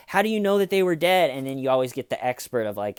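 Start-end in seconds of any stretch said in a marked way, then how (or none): 0.1-1.3 high-pitched, urgent mock questioning; incredulous questioner. Acting out questioning of killers.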